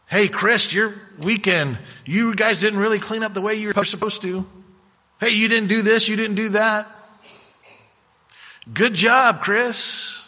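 a hint of a nagging boss listing faults; lightly voiced finger-wagging reprimand; mock scolding. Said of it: "we can beat each other up with the gospel".

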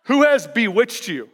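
amused, half-laughing rebuke; laughing mock greeting. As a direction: tease them with the insult. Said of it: "Imagine if my first letter".

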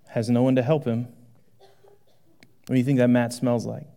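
quiet sermon reflection; reflective. Acted. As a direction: draw them into imagining it, hushed. Preacher drops to reflective tone.

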